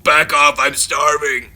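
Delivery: loud, slow booming comic bellow; Chris Farley big voice. Retold or imitated. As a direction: roar it like a big blustering oaf playing the devil. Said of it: "like, his big voice".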